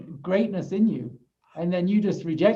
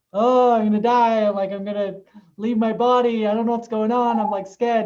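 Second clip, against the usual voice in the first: higher, mildly panicked retelling; retold terror; 4 semitones higher, 4 dB louder than usual. Recounting fear of dying to the group, in mild mock panic. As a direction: replay the panic, pitched up. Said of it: "'Cause I was terrified".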